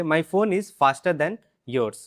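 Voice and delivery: slow, clear drill line; slow drill sentence. Shown as a demonstration. Teacher leads drill, slow and clear. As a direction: say it slowly for repeating. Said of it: "comparative पे आपको focus करना है".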